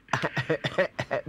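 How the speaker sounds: low, short chuckle; real low laugh; amused chuckle. Real, not acted. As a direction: chuckle to yourself before speaking. Host laughs at caller's story.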